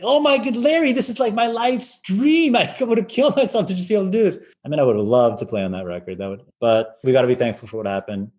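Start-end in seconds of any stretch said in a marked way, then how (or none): 0.0-4.4 much higher, hammed-up begging with a laugh; mock desperate pleading. Violinist to Larry after being forgotten, mock despair. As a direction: wail it like your dream is slipping away.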